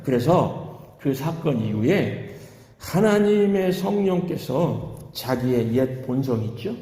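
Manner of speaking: usual speaking voice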